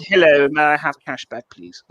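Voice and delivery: put-on overly polite English accent, a touch laughing; most English accent. To a Scottish cashier, a hammed-up English accent. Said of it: "I had to put on my most English accent".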